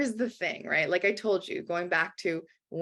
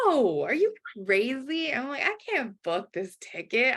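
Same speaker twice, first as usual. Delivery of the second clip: pitched-up alarmed protest; mock panic; 4 semitones higher than usual. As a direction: squeal in disbelief at the idea. Retold panic over ticket.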